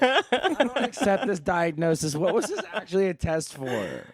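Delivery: laughing protest. Real, not acted. Protesting quiz result, laughing.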